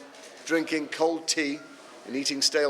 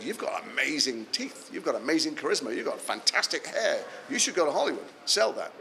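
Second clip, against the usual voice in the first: swooping, sing-song praise; gushing flattery. Retold or imitated. Someone talks an actor into Hollywood, gushing. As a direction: imitate someone gushing over a would-be star.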